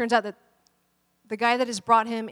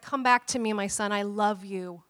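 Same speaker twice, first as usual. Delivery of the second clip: tender pleading; 3 semitones lower, 5 dB quieter than usual. Retold or imitated. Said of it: "he's crying out for this dictator".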